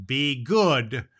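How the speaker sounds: slow, drawn-out sign-off line; catchphrase. Acted. Santa gives his catchphrase to the children. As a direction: stretch out the motto. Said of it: "and Santa Claus says".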